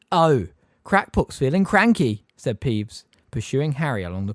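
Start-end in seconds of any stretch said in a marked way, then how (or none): 0.1-2.2 slow, high mocking sing-song; teasing poltergeist. A narrator's reading. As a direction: drag out the taunt. Peeves taunting.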